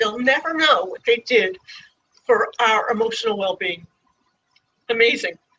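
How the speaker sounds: overcome with emotion. Thanking the community that rallied around them while caring for patients, emotional. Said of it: "I apologize for being emotional".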